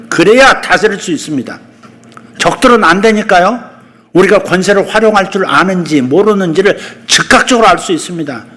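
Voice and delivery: ordinary talk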